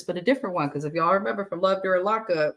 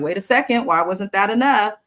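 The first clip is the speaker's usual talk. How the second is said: incredulous; 5 dB louder than usual. Retold or imitated. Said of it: "I'm like".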